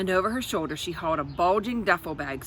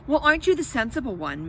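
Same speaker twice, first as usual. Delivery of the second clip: quick, bright exclamation, higher; a touch of sarcastic cheer; exclaimed; 6 semitones higher, 3 dB louder, faster than usual. Acted. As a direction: exclaim it with brisk mock praise. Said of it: "Miss Selinski exclaimed".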